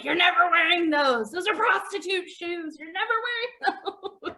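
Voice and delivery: stern mom forbidding; imitating mom. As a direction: lay down the law as mom. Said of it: "I was like".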